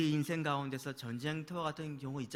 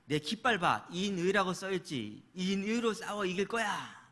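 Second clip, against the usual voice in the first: acted indignant king, raised voice; angry retort; 3 semitones higher, 4 dB louder than usual. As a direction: play an angry king digging in, louder and higher. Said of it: "화를 내면서". (화난 왕을 흉내 내며 언성 높여)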